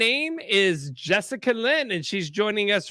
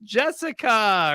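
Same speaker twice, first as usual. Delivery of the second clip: excited fan; 5 semitones higher than usual. Retold or imitated. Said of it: "people are at home, they're bored, and they're like".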